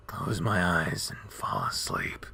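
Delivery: drowsy. Acted. Injured wolf drifting off.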